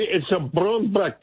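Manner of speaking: slow, lightly Scottish "It's a brown black" with a rolled stretch; Scottish accent. Retold or imitated. Caller imitating her Scottish worker's phrase, slow light Scottish accent. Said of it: "a Scottish worker here ... she could say".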